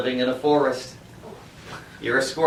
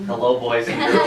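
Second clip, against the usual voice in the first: Fred Rogers voice; 3 semitones lower than usual. Acted. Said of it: "going back to my Fred Rogers voice here".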